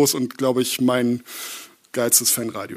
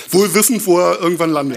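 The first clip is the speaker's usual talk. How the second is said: laughing; 6 semitones higher, 9 dB louder than usual. Real, not acted. Joking quip, loud laughing.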